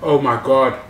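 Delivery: gasping at the spicy heat; reacting to a burning mouth; mouth burning from spicy food. Real, not acted. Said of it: "it starts burning straight away".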